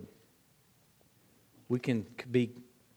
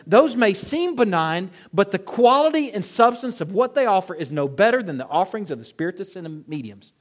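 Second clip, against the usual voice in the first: full-force preaching; 4 semitones higher, 7 dB louder than usual. Acted. Rising preaching, rhetorical questions.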